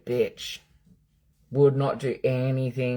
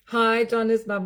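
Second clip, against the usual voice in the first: friendly hello; 7 semitones higher than usual. Shown as a demonstration. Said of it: "We should all say".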